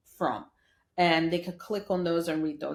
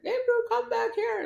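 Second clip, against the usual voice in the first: dad calling out. Retold or imitated. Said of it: "And he's like".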